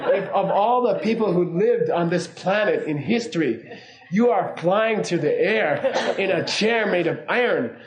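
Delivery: hammed-up lecture on being grateful, half laughing; incredulous rant. Comedian reminding the passenger he's flying, laughing incredulous rant. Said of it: "I, I don't do it very well".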